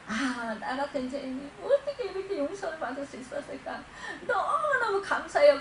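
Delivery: overwhelmed thanks, imitating a tearful cry; acted tearful gratitude. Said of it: "눈물 콧물을 흘리면서". (감격해 울먹이는 흉내)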